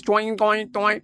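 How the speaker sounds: "toing, toing, toing" as repeated ringing syllables; mock Chinese sounds. Host showing co-host Chinese talk, mock "toing, toing, toing". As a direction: mimic "toing" in a bouncing run of syllables. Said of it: "You know what Chinese man I dey talk".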